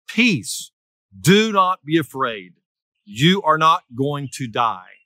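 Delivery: deliberate phrases set apart by pauses; measured divine reassurance, each phrase given room; solemn reassurance. Acted. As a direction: speak as God firmly calming someone, unhurried. Preacher voices the Lord calming Gideon.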